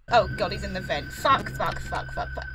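high, frantic string of swears; panicked swearing. Real, not acted. Gamer hearing enemy in vent, high panicked swearing. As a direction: squeak out the panic.

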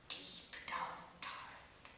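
slow awed whisper. Acted. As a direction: hush it like a secret.

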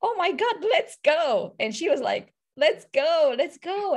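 high, eager urging to go; quoting an excited friend egging her on; lightly voiced eager friend. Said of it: "she said".

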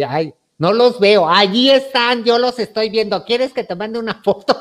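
excited insistence on the phone; insistent excitement. Retold or imitated. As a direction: insist eagerly that it's there. Insisting she sees the money.

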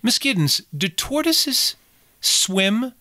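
put-on high, slow, innocent child's question; a light child voice for Flora asking her governess; little girl's voice. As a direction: ask it like a small girl, sweetly curious. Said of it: "She says".

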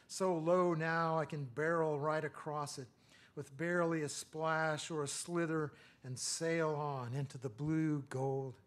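measured, lyrical poem recital; a poet reading aloud to a live room; poetry reading. Acted. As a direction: read each line like it matters.

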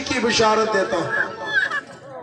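the angel calling out joyful tidings to the shepherds; proclaiming angel. Acted. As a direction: announce it like a herald from heaven.

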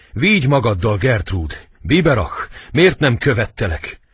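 high, loud lament; agitated stage wail; acted desperate plea. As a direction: cry out in panicked regret. Terrified prince cries to dead sister.

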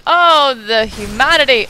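hammed-up tragic wail; overacted dramatic lament; mock despair. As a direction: play the dying hero over the top. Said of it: "mock melodrama".

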